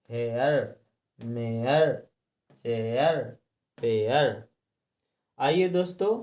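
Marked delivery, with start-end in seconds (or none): 0.1-4.4 हेयर, मेयर, चेयर, पेयर, each lower and ending in "eyar"; model word list. Shown as a demonstration. Teacher recaps the examples, हेयर to पेयर each ending "eyar". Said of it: "हमने इसमें पढ़ा है".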